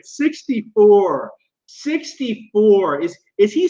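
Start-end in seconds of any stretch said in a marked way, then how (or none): 0.0-1.3 mock disbelief. Mocking repeat of phrase. 1.7-3.0 mock disbelief. Mocking repeat of phrase.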